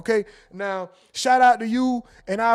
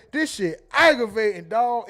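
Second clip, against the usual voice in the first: aunt voice; 3 dB louder than usual. Retold or imitated. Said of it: "in my aunt voice, which is a queso voice".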